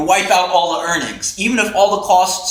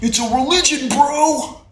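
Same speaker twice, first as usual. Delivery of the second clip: mock crypto bro; 10 semitones higher than usual. Mocking crypto fans.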